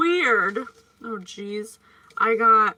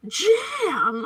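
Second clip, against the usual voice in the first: laughing movie quote; 6 semitones higher, 4 dB louder than usual. Retold or imitated. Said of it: "They're like".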